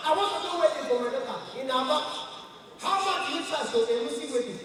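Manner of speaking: a hammed-up high Igbo caller; high Igbo man voice. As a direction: sound like an eager Igbo trader on the phone. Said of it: "Igbo man".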